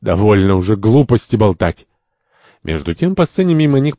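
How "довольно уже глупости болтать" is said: mildly agitated protest; nervous. Acted. Santori interrupts the others' chatter, nervous. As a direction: cut the chatter with a touch of nerves. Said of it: "Сантори нервно".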